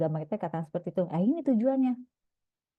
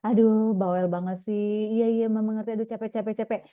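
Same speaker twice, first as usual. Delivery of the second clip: annoyed parent. Retold or imitated. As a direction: sound tired and brushed off by the chatter. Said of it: "kita jawabnya gini". (ibu yang kesal dan capek mendengar anak bercerita)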